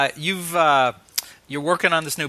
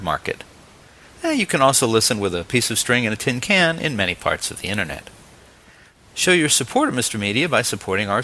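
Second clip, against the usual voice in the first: promo read; 3 semitones lower than usual. Acted. Host reads closing promos and ads.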